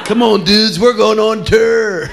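high rocker call, "tour" said like "ter"; rally the band, drawing "tour" out as "terrr"; "tour" to rhyme with "fur", high and slow; mocked pronunciation. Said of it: "the band doesn't go on tour".

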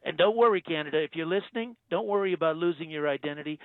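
Trump impression. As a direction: play the president, smug and self-assured. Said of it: "Donald Trump".

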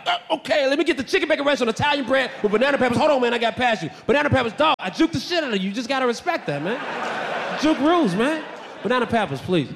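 playful boasting; smug order. Pretend. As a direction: gloat after juking him. Imagined juking past guard.

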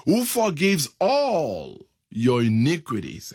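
"all" leaned on, weighted over the rest of the line; stress on all. Shown as a demonstration. Preacher reading the verse to the church, stress on "all". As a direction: give the word "all" the full weight. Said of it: "Emphasis on the word all".

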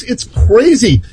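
normal talking voice

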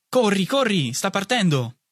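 sollecitato, molto più acuto; incitazione urgente. A narrator's reading. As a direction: spingilo a correre verso il treno. Madre spinge il figlio sul treno. (incitazione acuta e urgente)

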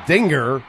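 Dinger with a hard G. Shown as a demonstration. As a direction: sound the g fully in Dinger, ding-ger. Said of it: "it should be a hard G".

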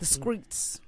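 "streets" said softly like "screets"; street pronunciation. Shown as a demonstration. Co-host correcting in street talk, "streets" as "screets". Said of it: "That's how they say it on the streets".

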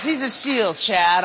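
dad won't take no for an answer; dad insisting his son believe him; insistent dad. Retold or imitated.

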